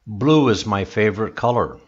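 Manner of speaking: "color" drops at the end; falling statement. Shown as a demonstration. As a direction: bring the voice down on "color". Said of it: "your voice goes down at the end".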